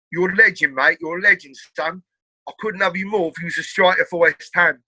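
imitated Essex lad's praise; Essex accent. Party guest praising the TV host, Essex accent. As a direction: do a matey Essex geezer. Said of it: "that's a great accent".

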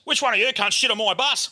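furious publican. Retold or imitated. Publican ringing about the fouled bus, outraged demand.

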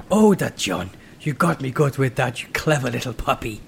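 put-on hammy, teasing German accent; comic German accent; loose German accent. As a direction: chide a pal in mock German. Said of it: "I'm doing a very loose German accent".

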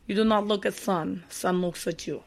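lightly put-on Russian accent, joke delivery; a weak Russian accent on a Soviet Russia joke; mock Russian accent. Podcast host tries a Russian accent for a joke. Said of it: "talk in a Russian accent".

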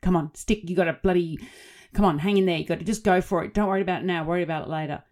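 loud, firm backstage urging; urging pep talk. Retold or imitated. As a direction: push her friend back on stage, loud and firm. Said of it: "and she said".

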